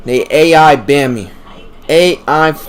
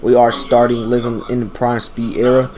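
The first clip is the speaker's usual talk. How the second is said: slow down a little after tripping over words; measured restart of a stumbled sentence. Real, not acted. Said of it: "let me slow down".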